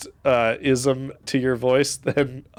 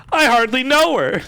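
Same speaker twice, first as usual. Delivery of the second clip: laughing through the joke, higher and louder; real laugh on the pun; laughing punchline; 10 semitones higher, 6 dB louder than usual. Real, not acted. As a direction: crack up on the punchline. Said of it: "I have a great joke".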